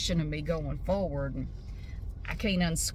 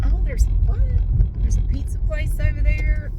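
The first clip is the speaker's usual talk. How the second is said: sudden jump up, louder, caught off guard; surprised; 7 semitones higher, 10 dB louder than usual. Real, not acted. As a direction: blurt it as something catches your eye. Suddenly notices something while driving.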